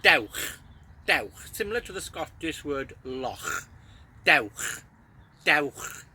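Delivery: Dewch with a hard ch at the back of the throat, like loch; cat-spit ch. Shown as a demonstration. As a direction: hiss the ch like a spitting cat. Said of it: "as if you were spitting like a cat".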